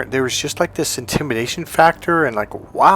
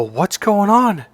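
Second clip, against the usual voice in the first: slow, raised-pitch concerned question; retold concern; 7 semitones higher, slower than usual. Godfather asks his crying goddaughter what happened, slow concern. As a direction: draw out the question, higher.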